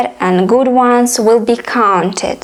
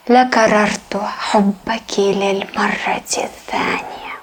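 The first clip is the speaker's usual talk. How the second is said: love poem recited in formal Arabic; poetry recitation; faster than usual. Acted. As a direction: recite it as poetry, in measured swelling phrases.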